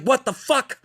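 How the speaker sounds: high, disoriented what the fuck; jolted awake and lost; startled confusion. Retold or imitated. Waking up confused.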